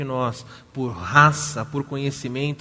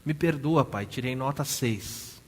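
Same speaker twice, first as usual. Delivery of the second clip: sobbing apology; slower than usual. Retold or imitated. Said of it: "soluçando".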